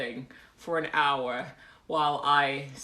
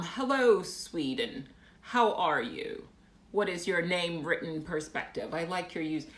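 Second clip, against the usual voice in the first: put-on British reading; awful British accent. Shown as a demonstration. Streamer greeting a viewer, awful British accent. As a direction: read comments in clumsy British. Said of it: "reading random comments in my awful British accent".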